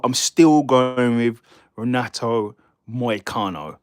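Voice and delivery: slow Scottish-accented statement of the pick, leaning on still; deliberate, unhurried restatement; slow firm pick. Shown as a demonstration. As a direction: spell out the pick slowly, drawing out each word. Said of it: "my pick has not changed".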